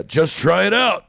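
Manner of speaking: slow, high singsong urging; mock encouragement. Mocking what they tell new comics, mock encouragement. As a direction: coax in jest, drawing it out.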